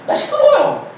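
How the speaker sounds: high, loud self-mocking shout; loud declaration. Shown as a demonstration. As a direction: belt out how noisy you are. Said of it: "그래, 맞아요. 나 시끄럽다고". (높고 큰 소리로 외치기)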